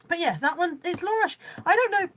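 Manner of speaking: talking through hiccups; fighting back hiccups. Real, not acted. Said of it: "sorry, I've got hiccups".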